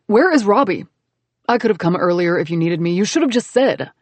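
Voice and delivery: mild protective grumble; grumbling man. Acted. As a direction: scold her for climbing, grumpy. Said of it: "Then he grumbled".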